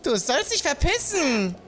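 put-on high, indignant scolding old man; grumpy old man. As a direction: tell off the nosy youngster. Same villager chases him away.

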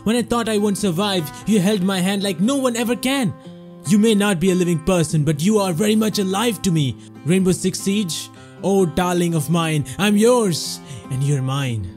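tender, sweeping poem reading over music; love poem recital. Acted. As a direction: recite it like a devoted love letter. Mock romantic ode to a game.

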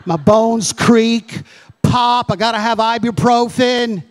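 lightly hammed-up old-timer griping; a hint of a whiny old man complaining; mock old complainer. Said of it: "complain about how old you are".

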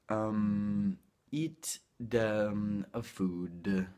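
halting Italian-accented English. Shown as a demonstration. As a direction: imitate an Italian searching for English words. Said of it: "l'accento di un italiano che parla inglese".

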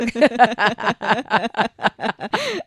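long, high burst of laughter; real, drawn-out laughing fit; hearty laugh. Real, not acted. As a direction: crack up at the joke. Laughs at the spelling joke.

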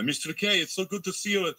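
high, excited put-on Hungarian accent, voiced lightly; imitated Hungarian accent. Hungarian fan greeting his hero, high excited Hungarian accent. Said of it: "Oh, what's the accent?".

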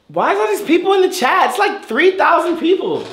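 lightly voiced young woman; girl voice. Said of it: "Like a girl, right?".

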